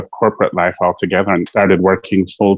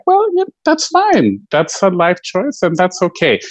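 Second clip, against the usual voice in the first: friend's voice; 9 semitones higher than usual. Retold or imitated. Friend Tom quoted on a walk.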